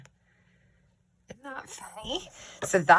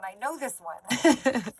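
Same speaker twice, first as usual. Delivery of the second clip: laughing mock eager; 5 semitones higher, slower than usual. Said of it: "you're just sitting there going".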